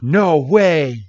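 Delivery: amazed. Retold or imitated. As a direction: marvel at the discovery. Ash amazed at Coco's language.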